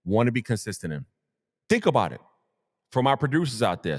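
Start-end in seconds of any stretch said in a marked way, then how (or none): 0.0-2.2 echoing hype DJ voice down a hallway; DJ Clue voice. Pretend. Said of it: "down the hallway D J Clue voice".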